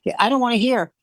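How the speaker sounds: mock domestic melodrama; soap-opera scolding. Wife to husband at show, soap-opera scolding. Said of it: "a soap opera".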